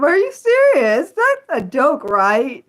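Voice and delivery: high, loud are you serious; incredulous. Real, not acted. Told power slap is a real sport, incredulous shout. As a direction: shout it in disbelief. Learning it's an Ultimate sport.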